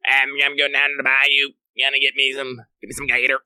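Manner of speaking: mock deep swamp southern accent; hammed-up bayou southern accent. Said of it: "deep swamp southern".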